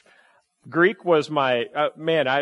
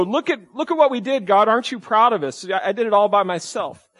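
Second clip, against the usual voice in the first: higher-pitched, lightly mocking show-off; mock proud boast; 5 semitones higher than usual. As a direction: show off eagerly for approval, lightly hammed. People boasting childishly to God.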